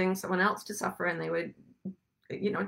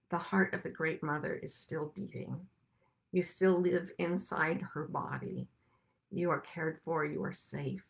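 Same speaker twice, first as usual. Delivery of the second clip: tender reassurance; 2 semitones lower, 6 dB quieter than usual. Acted. Comforting words to the hurt.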